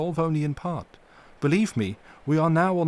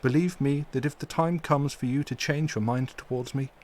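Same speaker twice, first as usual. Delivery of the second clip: full of pity; 3 semitones higher than usual. Acted. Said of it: "with an accent full of pity".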